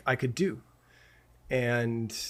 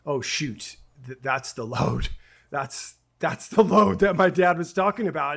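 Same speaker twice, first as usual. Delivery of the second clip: dawning realization; 5 dB louder than usual. Retold or imitated. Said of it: "the light bulb moment of".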